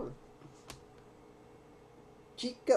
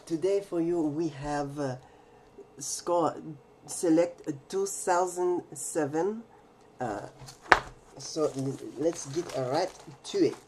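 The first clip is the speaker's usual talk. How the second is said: fake French accent; 3 semitones lower than usual. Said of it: "How is my fake French accent so far?".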